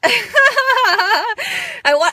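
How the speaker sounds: high laughter with tears; overwhelmed by joy until it spills; laughing and crying. Real, not acted. Overflowing with joy: laughing through tears.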